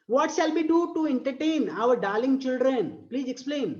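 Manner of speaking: slow, sing-song poem reading; drawn-out recital voice; poem recitation. Shown as a demonstration. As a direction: read it out like a verse for class.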